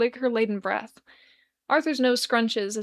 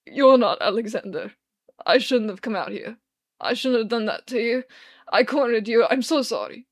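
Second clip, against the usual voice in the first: put-on louder, tearful drunk rambling; bawling apology; 5 dB louder than usual. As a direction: sob out the self-blame. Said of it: "The man continues to bawl".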